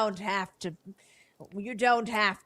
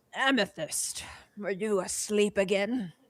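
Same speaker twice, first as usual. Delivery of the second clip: put-on raspy, rasping old man's voice; 6 dB quieter than usual. A game master voices the 112-year-old professor addressing Amethyst, in a raspy voice. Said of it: "with a raspy voice".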